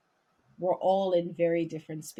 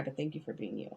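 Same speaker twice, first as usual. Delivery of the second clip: soft and sincere; 4 semitones lower, 11 dB quieter, faster than usual. Real, not acted. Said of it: "I'm not trying to make you cry".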